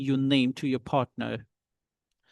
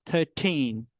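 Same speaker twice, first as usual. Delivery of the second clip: put-on THIRTEEN with a long falling TEEN; stressed TEEN. Shown as a demonstration. Teacher pronounces numbers for students, stressed TEEN. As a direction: lean on the second syllable of THIRTEEN. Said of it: "Now I'm pronouncing the numbers".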